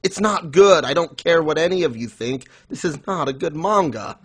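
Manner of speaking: half-joking rant at the readers; mock outburst. Telling listeners to stop praising the manga, mock exasperated outburst. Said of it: "And I'm just like".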